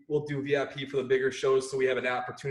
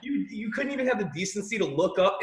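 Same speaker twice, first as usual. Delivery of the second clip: seething; 5 semitones higher than usual. Retold or imitated. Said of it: "just boiling up like".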